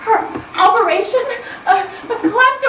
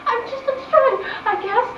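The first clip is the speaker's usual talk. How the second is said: tearful laughing. Acted. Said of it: "Why are you crying?".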